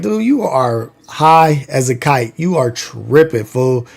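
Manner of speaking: slow, low, mocking brush-off; mocking disbelief. Teens teasing their crying friend, slow mocking dismissal. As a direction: dismiss him like he's talking nonsense.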